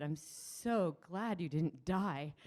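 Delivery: long drawn-out "so", slow delivery; slow, emphatic "so glad"; heartfelt emphasis. Retold or imitated. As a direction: stretch "so" out slowly with retold relief. Retold relief to friend who choked.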